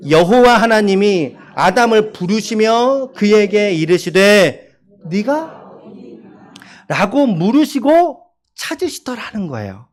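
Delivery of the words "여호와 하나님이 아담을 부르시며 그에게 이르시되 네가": 네가 drawn out very slowly as a question; slow reading. Shown as a demonstration. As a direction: read it slowly, stretching 네가. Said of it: "이 말투가 어떨지".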